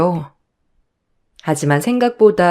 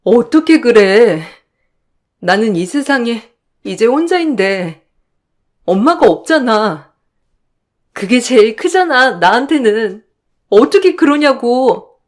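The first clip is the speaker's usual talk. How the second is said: 울며 항변. Acted. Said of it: "울지 마".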